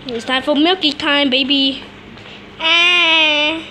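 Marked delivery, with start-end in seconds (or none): 2.6-3.6 short cry. Shown as a demonstration. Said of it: "That was my voice".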